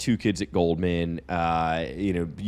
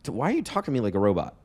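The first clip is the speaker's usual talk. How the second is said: mock interviewer; 4 semitones higher than usual. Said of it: "I'd be like".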